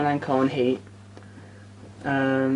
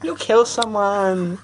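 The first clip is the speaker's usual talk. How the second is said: slow mock Sean; 5 semitones higher, much slower than usual. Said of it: "Sean went".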